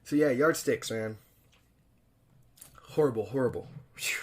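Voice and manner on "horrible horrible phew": unvoiced horrified whisper; whispered dread. Real, not acted. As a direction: breathe it out, appalled. Whispered reaction to painful scene.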